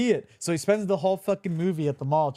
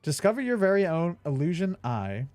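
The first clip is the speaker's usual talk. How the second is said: mock ad read. Reads the box blurb aloud.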